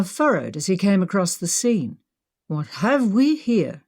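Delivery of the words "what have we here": slow, lightly British drawl; a touch of British accent, questioning; understated British villain. Acted. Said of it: "his accent British as well".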